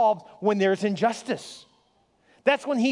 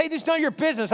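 retold angry brush-off, pitched up without shouting; mad man; 5 semitones higher, much faster than usual. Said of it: "The guy got so mad".

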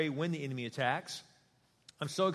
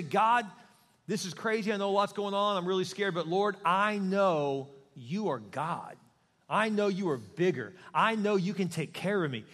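faith-filled prayer; 3 semitones higher, 3 dB louder than usual. Shown as a demonstration. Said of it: "prayers that are powerful are when you add your faith".

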